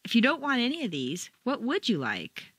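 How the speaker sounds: mildly exasperated, leaning on "would"; understated exasperation; a little exasperated. Shown as a demonstration. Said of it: "and a little exasperated".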